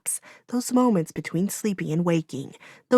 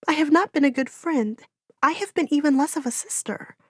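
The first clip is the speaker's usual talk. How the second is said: put-on higher, guilt-stricken young voice; grieving girl; 8 semitones higher than usual. A narrator's reading. Gabriella confessing to Orin that it is her fault, grieving. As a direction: confess the fault, near tears.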